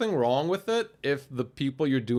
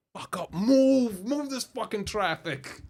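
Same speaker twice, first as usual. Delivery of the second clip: high, slow, half-crying mock plea; desperate plea; 9 semitones higher, slower than usual. Stuck next to the paranoid guy, begging traffic to move, mock panic. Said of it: "I'm like".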